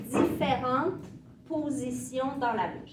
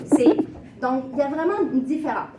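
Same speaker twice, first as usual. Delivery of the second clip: emphatic; 7 dB louder, much faster than usual. Real, not acted. Teacher stresses the difference.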